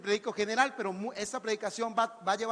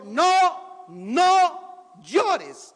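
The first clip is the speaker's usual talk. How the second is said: tender comfort; 4 semitones higher, 8 dB louder, much slower than usual. A narrator's reading. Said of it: "se compadeció de ella y le dijo".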